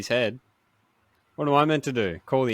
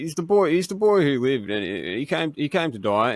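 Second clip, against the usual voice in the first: hesitant politician, a bit higher and louder; Dutton voice; 5 semitones higher, 3 dB louder than usual. Acted. Asked to do the Harry Potter line in Dutton voice, halting. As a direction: stammer through it like a politician. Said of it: "your Dutton voice".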